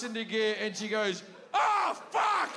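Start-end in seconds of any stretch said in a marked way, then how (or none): 1.5-2.5 high-pitched mock cry of alarm; sharp retold yelp of dismay; startled outburst. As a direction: burst out as if in sudden panic. Quoted panicked mother, sudden high cry.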